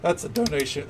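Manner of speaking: a sudden crack in the voice. Real, not acted. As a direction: voice cracks mid-phrase. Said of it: "my voice cracked hard there".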